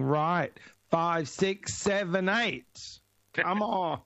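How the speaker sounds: rising count of a dance teacher; choreographer counting in. Retold or imitated. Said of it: "you're choreographing and you're going".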